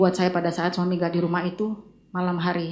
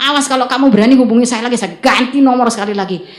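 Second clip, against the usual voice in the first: mock angry warning, quick and louder; retold scolding; 3 semitones higher, 5 dB louder than usual. Husband's text warning her off, retold as an angry scolding. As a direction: imitate a ranting threat, lightly acted. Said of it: "dia ngomel-ngomel".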